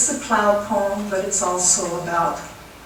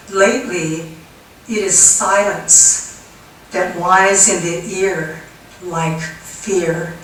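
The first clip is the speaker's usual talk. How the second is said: spare, deliberate reading with long pauses; poem recitation. Acted. Poet reads five words of an anti-war poem, deliberate recitation. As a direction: announce the word, pause, then recite the verse.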